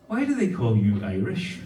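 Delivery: mock American accent, pitch dropping low; low-voiced imitation of an American. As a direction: put on a Yank's American accent. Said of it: "this American hears that. He comes up to me".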